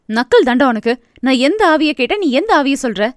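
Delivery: mildly annoyed, through clenched teeth; a touch of exasperation at her teasing brother; teeth-gritting annoyance. Acted. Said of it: "Iniya பல்லை கடிக்க".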